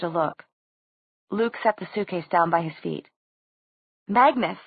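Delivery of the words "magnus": higher, urgent call; shrill, rising voice. A narrator's reading. Clary appealing to Magnus, shrill and urgent. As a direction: raise the voice in sharp appeal. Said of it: "Clary's voice rose, shrill".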